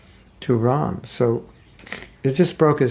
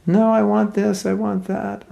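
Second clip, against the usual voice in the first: demanding wife; 8 semitones higher than usual. Retold or imitated.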